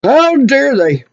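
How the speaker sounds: slow, simmering reproach; indignant. Real, not acted. Customer fuming over being ganged up on, indignant. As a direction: draw it out, affronted.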